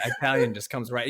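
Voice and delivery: "Italian" with a long EYE first; long "eye" vowel opening "Italian"; eye-talian. Shown as a demonstration. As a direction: say "Italian" easily as eye-TAL-yun. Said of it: "I blame it on Dad".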